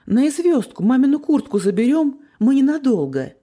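кричать издалека. A narrator's reading. Answers aunt from a distance.

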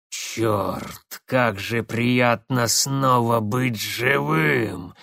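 медленно, с довольным рыком; смакует каждое слово; восторженный рык. Acted. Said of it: "восторженно прорычал он". (восторженно рычит)

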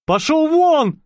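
high, firm order; demanding. Acted. Nicolas ordering the tramp away, firm. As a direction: drive him off with resolve. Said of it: "потребовал Николя".

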